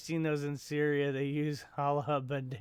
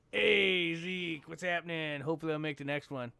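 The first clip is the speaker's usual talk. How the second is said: imitated viewer voice. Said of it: "In that kind of voice, you know".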